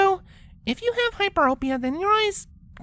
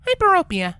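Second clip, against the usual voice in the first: correcting; 4 semitones higher, 6 dB louder than usual. Acted. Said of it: "Twilight corrected".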